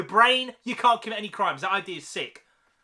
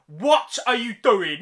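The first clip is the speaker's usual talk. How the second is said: louder, slower disbelieving demand; exasperated repeat; 5 dB louder, slower than usual. Acted. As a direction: call him out in exasperation.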